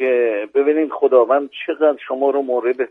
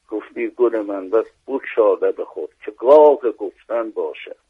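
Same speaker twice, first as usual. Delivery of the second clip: measured, rhythmic verse reading; poem recitation. Acted. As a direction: recite the quatrain with weight. Recites closing rubai.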